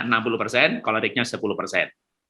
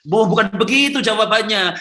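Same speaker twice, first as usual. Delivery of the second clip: a higher, louder put-on voice of an annoyed parent; mock exasperated parent; 8 semitones higher, 5 dB louder than usual. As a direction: brush the question off, hammed up. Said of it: "Udah tahu nanya". (orang tua kesal yang dibuat-buat, lebih tinggi dan keras)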